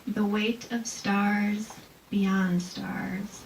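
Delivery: very slow, solemn haiku reading; poem reading. Shown as a demonstration. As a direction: read it slowly with long pauses. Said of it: "here's one about sight".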